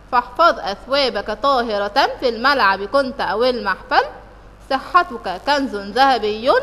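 slow, measured school-poem reading; chanting the poem with the pupils; poem recitation. Shown as a demonstration. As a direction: recite it line by line for the class. Reads the whole poem aloud.

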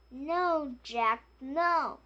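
a child voicing a cross mother; scolding no. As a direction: call after him to stop. Mother forbids Jack again.

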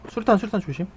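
grenade warning yell. Real, not acted. Warns teammate of grenade.

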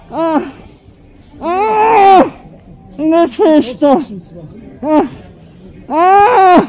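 pained cries. Real, not acted. Being held down, crying out.

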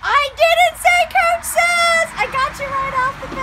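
gleeful shout. Real, not acted. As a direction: crow it out, caught you. Catching player out in game.

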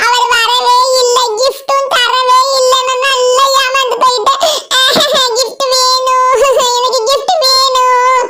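half-laughing, half-whining for a gift; laughing whine. Acted. Fooled by Santa, whining. (சிரிப்புடன் சிணுங்கல்)

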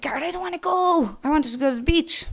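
high, petulant moan; whiny reluctance.

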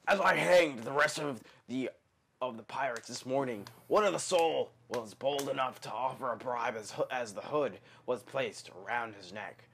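lightly hammed pirate reading. Shown as a demonstration. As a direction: read it like an old sea captain. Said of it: "gonna read it like a perp".

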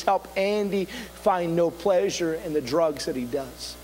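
low, slow voice from heaven; audible divine voice. Retold or imitated. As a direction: speak it low and measured, as God intervening. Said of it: "this audible voice speaks to me".

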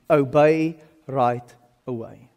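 slow retold command, spaced out; deliberate instruction. Preacher repeats his mentor's instruction to congregation, deliberate. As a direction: let each word land slowly.

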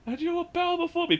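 arrogant god-king proclaiming; dark lord. Retold or imitated. Quoting Loki's rant.

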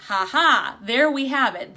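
punchy retold "ha ha" of discovery; triumphant aha. Coach spotting what needs discussing, triumphant aha. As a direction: pounce on the telling clue. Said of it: "and I went".

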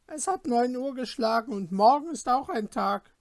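a stern hostess sending guests to bed; innkeeper's wife. Acted. Innkeeper's wife voiced in story.

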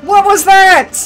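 high, loud yell of disbelief; outraged shout. Real, not acted. Player reacts to a sudden hit, outraged shout. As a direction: shriek it in sheer disbelief.

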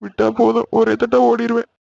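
soft, tense hushed talk; whisper-talk so mother won't hear; hushed panic. Acted. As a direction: lovers caught, hissing in hushed fear.

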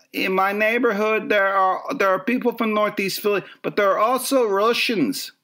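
hammed-up Philly neighborhood local; Northeast Philly accent. Shown as a demonstration. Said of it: "like, the Northeast Philly accents".

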